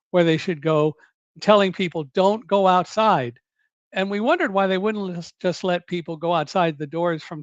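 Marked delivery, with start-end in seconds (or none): 2.1-3.4 slow, firm imitation of a shouted order; mock bullhorn shout. Someone directing people in the lobby, retold slow shout. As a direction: mildly imitate a bullhorn announcement, word by word. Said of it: "somebody shouting on a bullhorn telling people".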